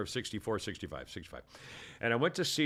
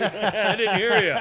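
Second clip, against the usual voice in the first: loud, slow and high through laughter; high, laughing pretend deafness; mock hard of hearing; 7 semitones higher, 9 dB louder, slower than usual. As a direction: laughingly shout like you can't hear. Jokily plays hard of hearing.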